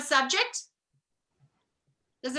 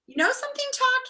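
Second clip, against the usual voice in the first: Milo; 13 semitones higher, 3 dB louder, faster than usual. Acted. Milo voiced in story.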